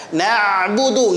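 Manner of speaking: na'budu slowly, ain drawn out; flowing ain. Shown as a demonstration. Teacher drills the second point, ain flowing. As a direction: let the ain in "Na'budu" flow on. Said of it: "ngalir huruf ain".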